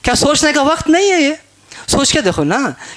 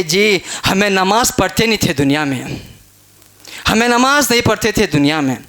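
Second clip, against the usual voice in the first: confessing sinner; 5 semitones lower than usual. Acted. Voices the damned confessing.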